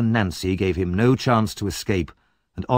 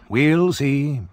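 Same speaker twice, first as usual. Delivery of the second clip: high, slow, loud mocking doubt; sceptical old man; 5 semitones higher, 4 dB louder than usual. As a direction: drag it out knowingly. Grimwig repeats his doubt.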